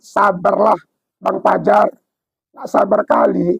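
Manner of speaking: a hint of a low, calm angel. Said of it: "Kata malaikat".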